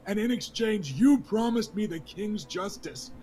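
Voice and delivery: a wronged lord accusing the king before the hall; young lord confronts the king, angry and hurt. Acted. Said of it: "raises his voice".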